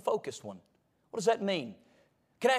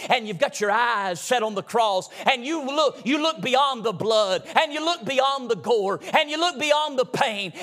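sung, rhythmic whooping preacher cadence; preaching. Acted. Preacher to the church, chanting the cross over music. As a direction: ride the music like a revival preacher.

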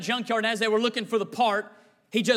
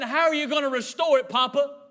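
incredulous questioning; 5 semitones higher, 3 dB louder than usual. Retold or imitated. Grandson doubts granddad's plan.

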